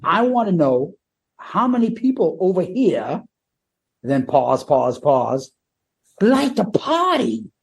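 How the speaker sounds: lightly voiced frontman asking who likes to party; imitating Paul. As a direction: stretch it like a frontman teasing the crowd. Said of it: "this is what Paul says".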